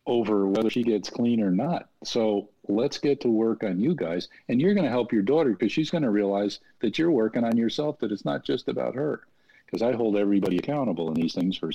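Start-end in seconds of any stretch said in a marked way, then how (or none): 0.1-9.2 emphatic, higher-pitched pep talk; firm coaching. Retold or imitated. Interventionist putting the parents to work, firm and emphatic. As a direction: press the point home with conviction.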